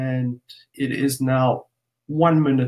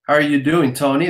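attempted American accent; faster than usual. Shown as a demonstration. Host greeting an American webinar guest, playful attempt at an American accent. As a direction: greet them in your best American accent. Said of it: "That's my best American accent".

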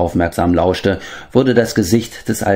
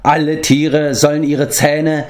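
rising, pitched higher, a grave proclamation; swelling thunderous voice; 8 semitones higher than usual. A narrator's reading. Medwin sends the animals a call to war, swelling thunderously. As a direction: let the voice swell like rolling thunder. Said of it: "seine tiefe Stimme schwoll an wie dumpfes Donnergrollen".

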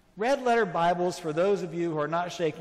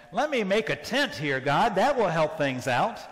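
louder, eager plea to God; mock eager Peter; 5 dB louder than usual. Preacher voicing Peter asking God, a louder eager plea. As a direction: blurt it out like over-keen Peter. Peter voiced in sermon retelling.

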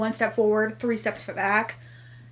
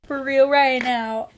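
loud, higher, emphatic outburst; exasperated disbelief; 4 semitones higher, 6 dB louder than usual. Real, not acted. Reader reacting to a bad scene, loudly exasperated. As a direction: punch it out, fed up.

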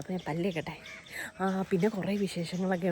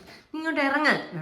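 calling out; 6 semitones higher, 3 dB louder than usual. Real, not acted. Scolding pet up on the shelf.

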